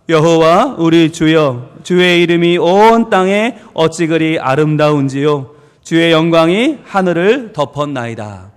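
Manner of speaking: slow, measured unison-reading voice, pitched low; solemn scripture reading. Acted. Pastor leading the congregation in reading the psalm aloud, solemn reading. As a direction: read the verse out slowly with drawn-out words.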